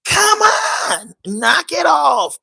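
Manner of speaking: exasperated shout. Real, not acted. Vlogger shouting at viewers about the sentence, exasperated. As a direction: yell it out in disbelief.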